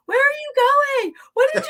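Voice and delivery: high, loud, frantic calling out; panicked yelling. Retold or imitated. Friends in the dark yelling after the runaway, panicked high shouting. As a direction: shriek it like friends scattering in fear. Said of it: "you hear them yelling".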